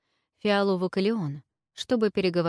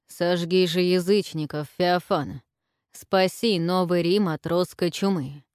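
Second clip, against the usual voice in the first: inspired exclamation; 3 dB louder than usual. Acted. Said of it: "воодушевлённо воскликнул император".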